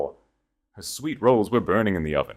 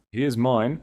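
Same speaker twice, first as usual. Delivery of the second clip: insisting; 6 semitones higher than usual. A narrator's reading. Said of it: "Alexander insisted".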